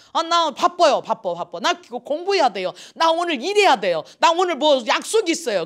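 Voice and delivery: loud, high, whiny excuses; excuse-making churchgoer. Retold or imitated. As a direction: brush off the invitation.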